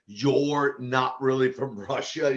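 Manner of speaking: lightly imitated broken Russian accent, slow; slow mock Russian accent, lightly done. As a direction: retell it in halting Russian-accented English. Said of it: "she had kind of this broken accent".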